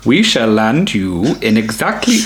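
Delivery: attempted Nordic accent, breaks off; a half-hearted try at a Nordic accent. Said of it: "Please try and do a Nordic accent".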